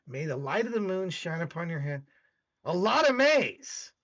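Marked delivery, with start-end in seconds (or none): 0.1-2.0 reading aloud. Shown as a demonstration. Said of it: "I wanna read this again here".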